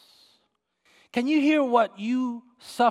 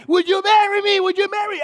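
high, loud, repeated excited call; bursting with excitement, voice way up; excited yelling; 10 semitones higher, 6 dB louder than usual. Retold or imitated. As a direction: imitate an eager man hollering. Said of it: "He was so excited about getting married".

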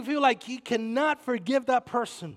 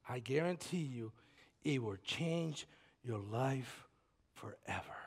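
much softer, breathed-out final word; whisper; 10 semitones lower, 13 dB quieter than usual. Real, not acted. Pastor closes his promise to the listeners in a whisper. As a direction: let the last word fall to a whisper. Ending point of appeal.

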